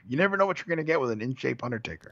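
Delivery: fast, hyped commentator build-up; Joe Rogan-style hype. Acted. Fan hyping the match to his co-host like a commentator, fast and pumped. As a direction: sell it like a pumped-up fight commentator. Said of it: "like Joe Rogan talking".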